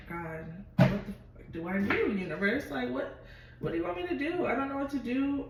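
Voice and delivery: climbing up into a high, frantic appeal to the universe; desperate plea. Retold or imitated.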